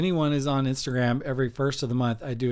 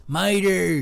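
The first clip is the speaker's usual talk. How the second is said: higher, louder Mater try; 5 semitones higher, 4 dB louder than usual. Shown as a demonstration. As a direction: bark the name like Mater. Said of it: "This is Mater".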